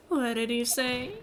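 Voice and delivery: slow, rising question; taken aback. Acted. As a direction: let the slip sink in slowly. Lawyer reacts to a slip, first take.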